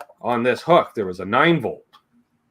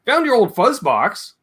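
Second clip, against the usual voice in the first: godfather voice; 9 semitones higher than usual. Retold or imitated. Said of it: "He goes".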